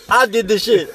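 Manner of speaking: mock confession. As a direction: blurt it out like a hammed-up confession.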